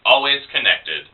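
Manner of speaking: measured persona-poem recital; poetry reading. Acted. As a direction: recite it in steady phrases with short pauses. Reads persona poem to audience.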